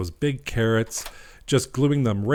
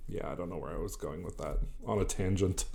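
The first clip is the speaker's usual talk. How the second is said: muttered to self; 5 semitones lower, 13 dB quieter than usual. Real, not acted. Trailing off aside.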